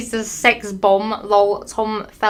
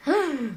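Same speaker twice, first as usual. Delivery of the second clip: short acted intake of breath; mock gasp; 4 semitones higher, 5 dB quieter than usual. Narrator acting out the heroine's gasp, put-on gasp. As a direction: gasp for show. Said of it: "I gasped".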